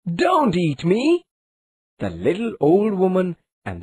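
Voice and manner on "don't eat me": high, slow storybook shout; a child's high cry of don't eat me. A narrator's reading. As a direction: call out in alarm, drawn out. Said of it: "ran out shouting".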